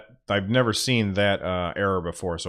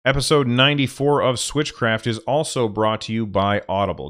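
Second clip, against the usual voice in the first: upbeat podcast ad read; sponsor read. Acted. Podcaster reading the Audible sponsor spot, upbeat. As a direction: sell it like a host reading an ad. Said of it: "now I'm gonna do the sponsor read".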